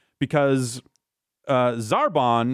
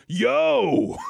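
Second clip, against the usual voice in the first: high-pitched comic shout; Vegeta. Retold or imitated. Vegeta flies up to Zarbon, mock high shout. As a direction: call it out way up high. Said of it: "he just goes".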